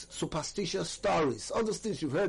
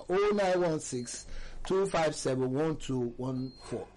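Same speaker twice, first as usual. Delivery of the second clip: slow dictation; slower than usual. Real, not acted. Repeating number for those without it.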